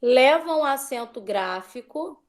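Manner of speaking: slow dictation with held-open rising ends; measured classroom dictation, ending each phrase on a rise. Real, not acted. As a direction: dictate slowly for pupils to copy. Tia, repete, por favor.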